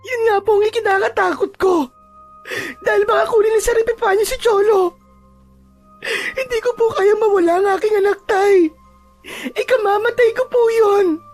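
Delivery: distraught, sobbing plea; tearful crying. Acted. Mother tells her father she can't lose her son, crying. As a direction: plead through tears as a frightened mother. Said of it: "Walang tigil ang pag-iyak ni Rosenda".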